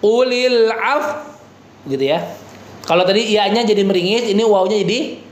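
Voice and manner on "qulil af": Qulil af- with lips pushed forward, slow; lips pursed. Shown as a demonstration. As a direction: round the lips into a pout on af-. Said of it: "jadi monyong".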